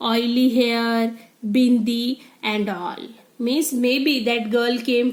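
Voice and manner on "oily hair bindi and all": slow, scornful whisper; sneering whisper. Acted. Rima sneering at the new girl in a whisper. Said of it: "showing her attitude".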